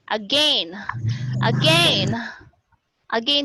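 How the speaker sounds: "again" with a long AY, like "a-GAIN"; diphthong A-I. Shown as a demonstration. Teacher showing the other transcription, "again" with an AY diphthong. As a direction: say "again" to rhyme with "rain". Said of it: "using the diphthong A I".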